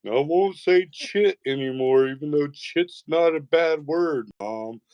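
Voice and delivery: put-on high-pitched grudging kid promise; protesting kid. Son answering his mom, high grudging protest. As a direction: imitate a boy giving in under protest.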